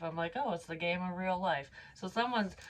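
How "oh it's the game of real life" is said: ordinary talk, nothing marked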